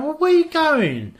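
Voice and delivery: imitating his startled self; mock surprise. Asking his girlfriend where she is off to, mock surprise. Retells his baffled question.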